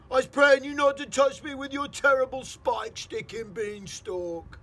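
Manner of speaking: slow, loud, high desperate begging; pleading giant. Acted. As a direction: beg for mercy in terror.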